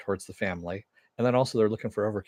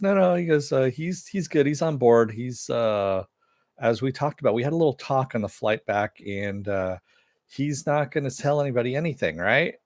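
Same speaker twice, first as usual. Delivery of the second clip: a raised, higher hero voice; Superion's voice; 3 semitones higher, 3 dB louder than usual. Retold or imitated. Host voicing Superion assuring Arthur, higher and louder. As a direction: pitch up, press the reassurance.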